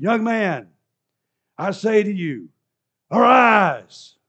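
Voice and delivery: ringing shout, rising high; Jesus commands the dead son to rise, shouting; loud command. Acted. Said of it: "he spoke loudly for both groups to hear".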